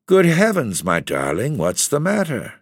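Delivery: a husband startled to find his wife weeping; high shocked cry of concern; alarmed cry. Acted. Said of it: "I cried".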